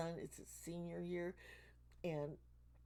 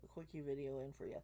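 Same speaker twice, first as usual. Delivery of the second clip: hoarse, worn-out voice; losing voice; 3 semitones lower, 6 dB quieter, faster than usual. Real, not acted. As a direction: talk through a voice that's going. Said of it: "I'm losing my voice".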